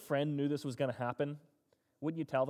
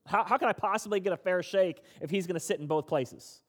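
louder and higher, an indignant rant; griping frustration; 4 semitones higher, 5 dB louder than usual. Retold or imitated. Job gripes to God about a rigged court, indignant and louder. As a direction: argue like a man who got a raw deal. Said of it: "he's frustrated, he's mad".

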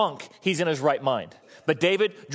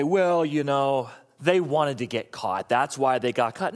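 slow, lower mocking voice of people making excuses; 3 semitones lower, slower than usual. Preacher mimics people excusing the sinner, slow mock drawl. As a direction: drag it out like a lame excuse. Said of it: "oftentimes people say".

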